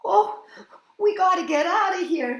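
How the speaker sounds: high, loud panicky cry; panicked high plea; frightened high call; croaked. Acted. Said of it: "he croaked".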